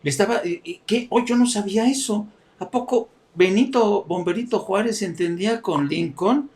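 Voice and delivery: voz aguda y sorprendida de Trump fingido; imitando a Trump. Retold or imitated. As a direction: exagera el asombro de Trump. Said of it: "los gestos del presidente Trump". (Trump burlado con voz aguda)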